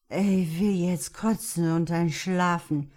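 slow, tired and sick. Acted. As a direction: drag it out, exhausted. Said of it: "überlegte er müde".

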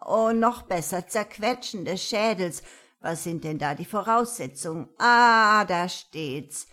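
eager granny reading a spell; gleeful old witch. Acted. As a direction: savour each curse. Granny reads curse recipe.

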